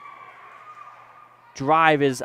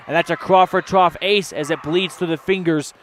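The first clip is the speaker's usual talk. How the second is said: building energy through the ace, a bit louder at the end; excited ace call; 4 dB louder than usual. Real, not acted. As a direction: sell the ace. Ace called live.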